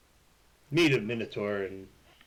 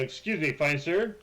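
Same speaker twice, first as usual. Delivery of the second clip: courtly greeting; 5 semitones higher than usual. Acted. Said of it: "Say something, John, real quick".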